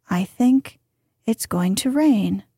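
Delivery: "I think it's going to rain" as an easy statement; even inflection. Shown as a demonstration. Reader models introducing equals with no distinction, even statement tune. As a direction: say "going to rain" as casual fact. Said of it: "The inflection is".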